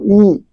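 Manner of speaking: "ई" sounded forward, near the teeth; front vowel demo. Shown as a demonstration. Teacher showing students where the sound forms, front vowel demo. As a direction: push "ई" to the front of the mouth. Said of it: "दांत के पास इसका sound निकलता है".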